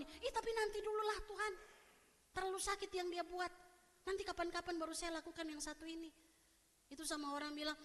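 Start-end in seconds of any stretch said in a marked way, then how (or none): 0.0-6.1 higher-pitched, mildly whiny stalling; reluctant excuse. Acted. Believer told to forgive, reluctantly stalling the Lord. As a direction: plead to put it off till later.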